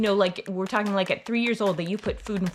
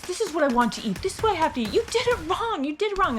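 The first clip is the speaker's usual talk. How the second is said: put-on high, rising whiny child voice, climbing ever higher; mock child tantrum; 8 semitones higher than usual. Parent imitating a picky child screaming over food, high and whiny. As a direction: ham up a picky toddler refusing breakfast. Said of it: "they're gonna scream and be like".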